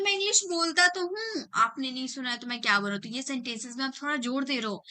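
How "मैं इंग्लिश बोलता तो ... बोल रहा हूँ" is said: pitched up, offended insistence that then rushes on; mock annoyed retort. Student insisting to the teacher he does speak, mildly annoyed. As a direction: act mildly irritated, as if you're being doubted. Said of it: "अब आ गए गुस्से में आप".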